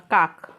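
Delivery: काक said low and firm, long open a; careful pronunciation. Shown as a demonstration. Teacher drilling काक for the class, low and firm. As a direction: model काक as one crisp word. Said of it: "का और क".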